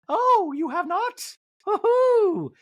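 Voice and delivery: high, slow gleeful mock; mock Dorit. Recapper mocking Dorit's gleeful reaction, high. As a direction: coo it up high, teasing.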